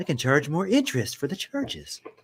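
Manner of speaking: old, wealthy cartoon tycoon man voice. Reviewing whether they can charge interest, the speaker mimics the old man on The Simpsons. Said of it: "I feel like the old man on The Simpsons".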